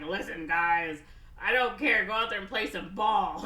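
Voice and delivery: put-on rally the kids like a coach; gruff coach pep talk. Coach rallying his team.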